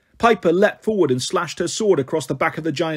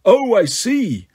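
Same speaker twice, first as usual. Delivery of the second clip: mocking drawl; 5 semitones higher, slower than usual. Giant amused taunt.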